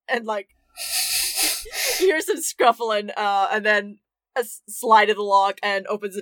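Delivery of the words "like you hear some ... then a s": usual speaking voice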